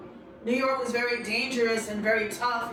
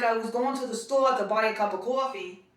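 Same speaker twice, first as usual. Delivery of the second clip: thick Queens-style New York vowels; old New York accent on store and coffee; heavy New York accent. Retold or imitated. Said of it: "I had a heavy New York accent".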